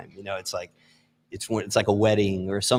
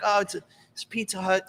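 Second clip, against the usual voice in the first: higher eager pitch voice; eager salesman; 10 semitones higher, 5 dB quieter than usual. Retold or imitated. Salesman answers the guy in an eager high voice. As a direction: sell it brightly and high.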